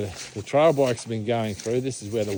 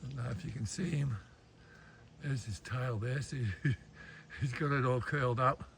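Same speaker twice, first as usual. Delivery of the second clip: hushed voice; 10 dB quieter than usual. Real, not acted. Creeping up on a goanna.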